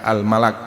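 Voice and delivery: al-malak read as a-l-MA-lak, short a vowels; al-malak, singular of angel, read with a vowels. Shown as a demonstration. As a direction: spell out al-malak with a on both syllables. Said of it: "kata ini bisa dibaca bermacam-macam".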